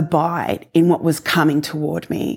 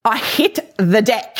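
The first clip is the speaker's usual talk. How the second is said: ordinary delivery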